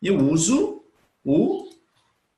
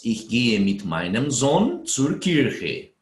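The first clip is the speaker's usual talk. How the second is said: slow dictation; slower than usual. Shown as a demonstration. Reading student's sentence.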